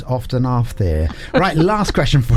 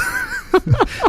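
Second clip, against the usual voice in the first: dolphin squeak. Pretend. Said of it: "I get to do my dolphin impression".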